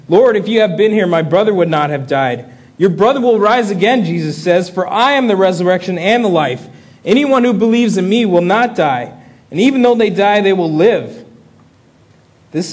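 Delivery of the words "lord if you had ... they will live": fervent preaching. Acted. Sisters' cry and Jesus's reply.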